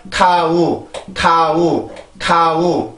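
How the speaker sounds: 카우 as two even Korean syllables; Korean unstressed reading. Shown as a demonstration. Teacher showing how Korean reads the word, unstressed. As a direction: read 카우 letter by letter, no stress. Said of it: "강세가 없는 언어예요".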